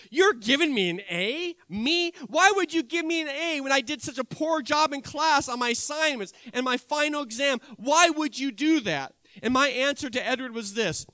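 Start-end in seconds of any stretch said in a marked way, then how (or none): 0.1-9.1 surprised. Acted. Student stunned by A grade.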